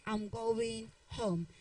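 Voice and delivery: slow, careful "I'm going home"; slow it down as the right model; correct version. Shown as a demonstration. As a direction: say it slowly like a teacher modelling the correct line. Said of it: "You say".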